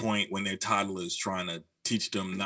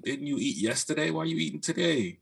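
higher, mock-puzzled baby asking why eat again; 6 semitones higher than usual. Friend voicing a hungry baby, mock-puzzled baby voice. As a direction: play the baby, baffled at being hungry.

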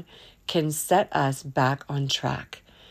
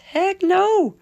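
emphatic refusal; 13 semitones higher, 4 dB louder than usual. Real, not acted. Recoiling from yucky stuff.

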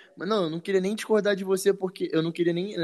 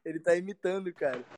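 distant, much softer repeated words; canyon echo; 3 semitones higher, 6 dB quieter than usual. Pretend. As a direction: echo it back like from far away. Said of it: "Olha o eco".

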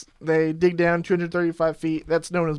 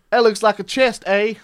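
mock Canadian accent; 3 semitones higher, 5 dB louder than usual. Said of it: "I don't believe yours is spot on either".

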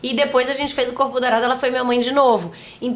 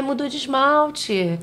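sly son; 3 semitones higher, much slower than usual. Retold or imitated. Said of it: "ele pegou minha mãe e falou".

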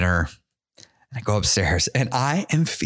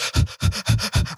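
heavy exhale; 10 semitones higher than usual. Retold or imitated. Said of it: "I'm out of breath".

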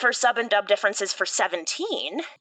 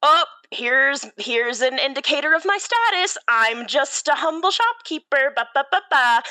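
lightly voiced humble shopkeeper, higher; 5 semitones higher than usual. Urahara brushing off his status, in a lightly higher humble voice. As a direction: play the modest little shopkeeper, a touch coy. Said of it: "it also could be like".

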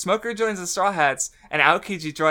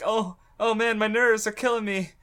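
higher-pitched, overwhelmed fanboy; fanboy nerd; 6 semitones higher than usual. Retold or imitated. Fanboy peeking at his idol, high and overwhelmed. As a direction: gush like a starstruck fan, stretching the last words. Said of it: "he's such a fucking fanboy nerd".

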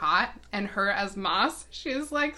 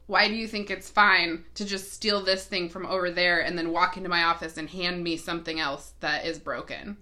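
exasperated rant. Retold or imitated. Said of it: "what I need to say is".

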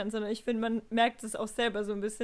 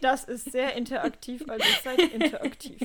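mock monotone; 3 dB louder than usual. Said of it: "Wie monoton du das gerade gesagt hast".

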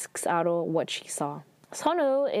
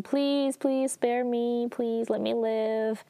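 higher-pitched retold plea, lightly played; mild begging; 4 semitones higher, slower than usual. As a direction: plead for your life, understated. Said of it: "like, begging".

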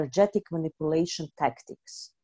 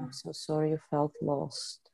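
quiet repeat; 8 dB quieter than usual. Shown as a demonstration. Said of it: "client repeats it".

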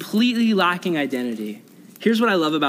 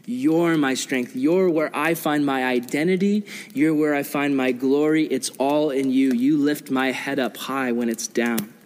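prayerful calling out; 4 semitones lower than usual. Retold or imitated. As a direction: pray it lower and unhurried, addressing God. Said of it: "He calls out to the Lord".

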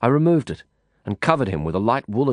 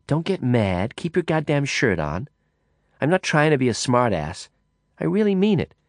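a hint of a restless woman, a touch higher; lightly voiced woman; 3 semitones higher than usual. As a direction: chatter on, half provoking. Woman talks about monsoon.

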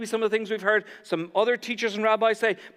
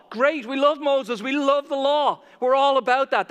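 higher, mildly hyped-up approval; enthusiastic crowd; 4 semitones higher, 4 dB louder than usual. Acted. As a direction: play an eager congregation cheering on the law. Crowd cheering on Moses and law.

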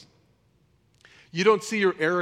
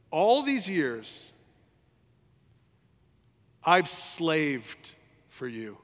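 put-on aggrieved older brother; much slower than usual. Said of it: "He says".

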